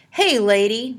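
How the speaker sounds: loud call across the clearing; shout. A narrator's reading. Morton calls Annabelle away from Olive, shouting. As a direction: yell to get her attention. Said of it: "Morton shouted".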